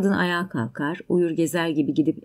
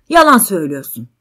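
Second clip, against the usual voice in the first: loud, quick accusation; raised voice, bursting out; angry shout; 8 dB louder, faster than usual. Acted. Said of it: "Erkek bağırmaya başlar".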